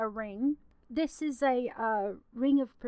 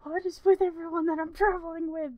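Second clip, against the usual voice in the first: grumbling; 5 semitones higher, 4 dB louder than usual. Acted. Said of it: "you hear her mumble".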